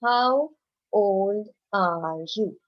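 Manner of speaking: slow questioning read-aloud; teacher modelling a question; slow model question. Shown as a demonstration. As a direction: ask it slowly and clearly for the class. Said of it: "the next sentence is".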